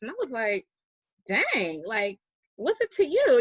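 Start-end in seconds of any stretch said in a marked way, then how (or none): 1.3-3.4 louder, higher, mock-offended comeback; indignant retort. To the roommate banning cheese, a mock-indignant comeback. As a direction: fire back, half joking, half annoyed.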